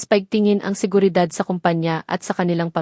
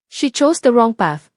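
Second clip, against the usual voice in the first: firm and slow, a bit louder; stern; 4 semitones higher, 4 dB louder than usual. A narrator's reading. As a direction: lay it down hard and final. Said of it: "matigas na sabi ni Miguel".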